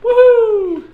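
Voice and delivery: high loud whoop of joy; excited cheer. Real, not acted. Cheering for sister's surgery.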